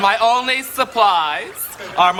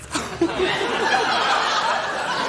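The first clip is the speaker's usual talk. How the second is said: laugh; 12 semitones higher than usual. Real, not acted. Buddy laughs at own joke.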